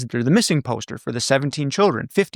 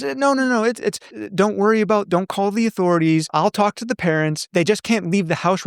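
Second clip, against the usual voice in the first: put-on higher fussy old aunt, brushing it off; high eccentric aunt voice; 4 semitones higher than usual. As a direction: wave off worries in a fluttery higher voice. Gladys voiced fending off principal.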